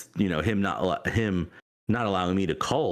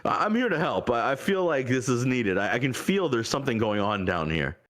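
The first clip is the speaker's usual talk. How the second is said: high eager deity; 6 semitones higher than usual. Acted. Deity voiced by the player.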